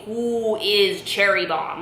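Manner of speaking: slow, stretched cryptic question; riddling mom. Retold or imitated. Mom who kept saying it over and over, riddling. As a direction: imitate someone posing the same riddle endlessly. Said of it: "Like, over and over".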